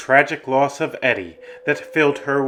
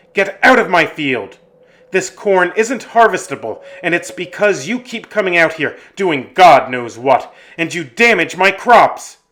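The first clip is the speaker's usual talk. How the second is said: loud, raised-pitch angry farmer shouting; angry yell; 3 semitones higher, 7 dB louder than usual. Acted. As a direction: yell at trespassers to get off your land. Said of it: "Mister Kirby yelled as he ran".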